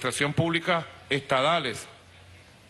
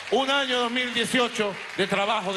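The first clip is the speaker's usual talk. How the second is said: raised, building orator's voice; ranting dictator speech; 4 semitones higher than usual. Real, not acted. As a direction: push the voice up, rallying. Building speech toward closing vivas. (discurso enardecido)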